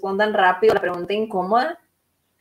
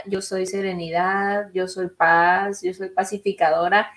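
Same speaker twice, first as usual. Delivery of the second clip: calm affirmation. Retold or imitated. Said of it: "en mis afirmaciones yo decía".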